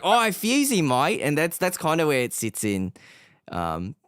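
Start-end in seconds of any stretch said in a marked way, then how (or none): 0.0-1.2 put-on higher, louder bogan Australian accent; broad Australian game-character greeting; Fuse. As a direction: put on a matey, excited Aussie accent. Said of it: "So I hear Fuse".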